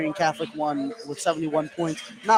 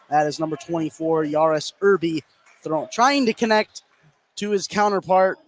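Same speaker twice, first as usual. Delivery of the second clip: steady running game call; live play-by-play. Real, not acted. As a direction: call each possession as it unfolds.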